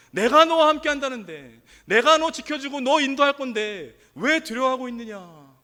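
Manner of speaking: preacher's forceful voicing of God's reproach; impassioned rebuke. God asks the people why they are afraid, rebuking. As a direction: press each reproachful question on the listeners.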